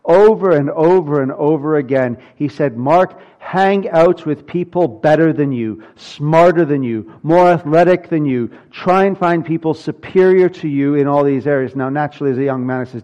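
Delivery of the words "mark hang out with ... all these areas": lightly voiced father drilling in advice; insistent father. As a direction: drive each phrase in like a lecturing dad, lightly acted. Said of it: "drilled into my head by my father".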